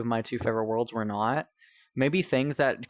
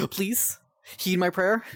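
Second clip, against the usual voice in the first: desperate begging; 8 semitones higher, much slower than usual. Real, not acted. Begging the game to load.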